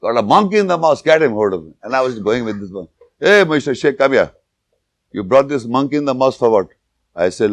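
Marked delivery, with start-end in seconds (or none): 0.0-1.7 high, fast alarmed call; a hint of a worried worshipper calling out; alarmed shout. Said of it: "the guy said to the Imam". 3.2-6.7 mock stern imam. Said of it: "the Imam".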